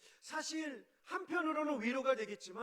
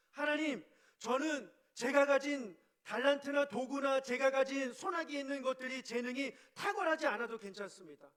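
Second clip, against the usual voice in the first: louder, earnest prayer voice; fervent prayer; 2 semitones higher, 4 dB louder than usual. Acted. Moses confessing to God that God alone is enough, fervent. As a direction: pour it out to God with conviction.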